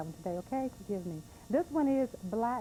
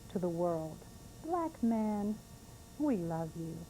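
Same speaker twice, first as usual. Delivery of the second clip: slow, heartfelt poetry reading; emotional spoken-word poem; poem recital. Real, not acted. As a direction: read it as a tender tribute, holding back tears. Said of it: "a little bit of emotion in my voice".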